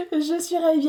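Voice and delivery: laughing it out with delight; bubbling over with a laugh. Real, not acted. Delighted with her new painting, laughing as she speaks.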